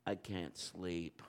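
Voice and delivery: put-on a small sleepy child at the bedside; sleepy little kid. Little dog voiced as a child.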